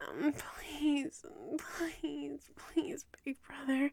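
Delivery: soft, breathy, whispered begging tone.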